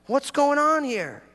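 high, slow, exasperated demand; hammed-up protest to heaven; angry at God. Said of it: "I'm angry at God".

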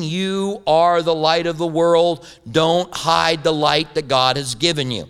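slow, patient teacher reading the verse; slow explaining. Retold or imitated. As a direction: spell it out slowly for children. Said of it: "did a good job of explaining".

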